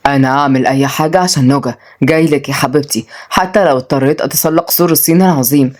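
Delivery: low-pitched lover's resolve; determined. Acted. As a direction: vow it with mild, understated determination. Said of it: "قال شلاش بتصميم".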